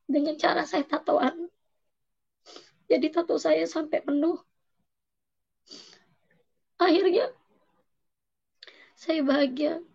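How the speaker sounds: real tearful voice, pitched high; high, emotional confession; choked up. Real, not acted. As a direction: testify through rising tears, halting between phrases. Tearful testimony, thanking God.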